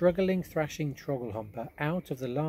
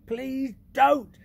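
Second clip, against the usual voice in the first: much higher, louder giant pleading; 11 semitones higher, 7 dB louder than usual. Acted. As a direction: beg loudly as the giant. BFG pleads.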